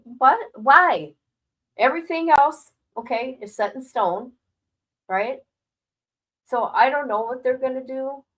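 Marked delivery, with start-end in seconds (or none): 0.0-5.4 higher, louder incredulous questions; disbelieving outburst. Retold or imitated. Reacting to the lens price, loud incredulous protest. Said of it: "I'm like".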